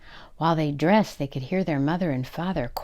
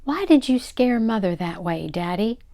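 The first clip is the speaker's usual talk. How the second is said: mildly stern, raised-pitch scolding; 4 semitones higher, 3 dB louder than usual. Acted. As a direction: take Daddy to task. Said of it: "Anne said sternly".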